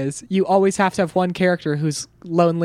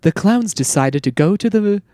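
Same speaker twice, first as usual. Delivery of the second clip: narrator voice. Retold or imitated. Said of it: "there's just a narration".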